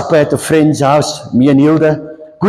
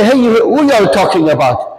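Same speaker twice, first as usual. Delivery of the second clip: higher-pitched imitation of a dad's Durban accent; strong Durban accent; 5 semitones higher than usual. Father asking what they talk about, strong Durban accent. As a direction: butt in with a Durban Indian accent. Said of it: "Sterk Durban accent".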